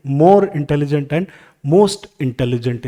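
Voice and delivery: drawn-out teacher dictation; very slow dictation. Shown as a demonstration. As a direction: say it slowly so students can write it. Teacher dictating forms slowly.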